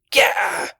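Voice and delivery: loud orc yell; shouting orc. Acted. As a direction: bellow the order. Orc calls out.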